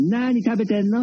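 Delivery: lightly voiced senior performer's question; 小菊師匠. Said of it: "小菊師匠が".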